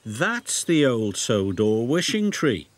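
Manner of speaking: slow, knowing storyteller engine; a friendly engine sharing a secret; knowing Thomas. Acted. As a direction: explain it slowly, with a hint of mystery. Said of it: "said Thomas".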